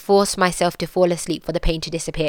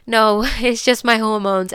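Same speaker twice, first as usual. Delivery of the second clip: slow, higher tearful laugh; laughing through tears; 4 semitones higher than usual. Retold or imitated. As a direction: laugh it off while crying. Answering friend through tears.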